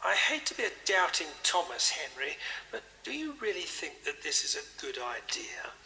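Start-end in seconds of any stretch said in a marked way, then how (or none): 1.9-5.7 worried whisper. Acted. Vicar doubts the locking plan.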